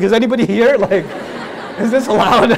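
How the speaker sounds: nervous, half-laughing whisper of a question; laughing, sheepish. Retold or imitated. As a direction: peek around guiltily and giggle. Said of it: "I looked around like".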